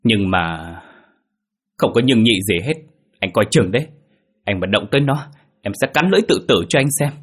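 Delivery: heated wife warning her husband, pitch jumping; angry threat. A narrator's reading. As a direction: lay down a fierce ultimatum. Wife threatens husband over the baby. (đe dọa giận dữ)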